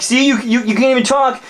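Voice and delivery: very high, shrieking mock rant; furious girlfriend. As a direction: tear into him from way up high. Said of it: "And she's like".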